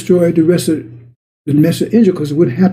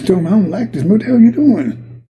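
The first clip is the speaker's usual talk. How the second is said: mad Jonah; 4 semitones higher than usual. Acted. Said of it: "He says".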